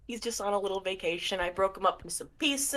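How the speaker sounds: soft, quick, lightly voiced villain; unhinged Miracle figure, offhand. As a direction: toss off the confession softly and fast.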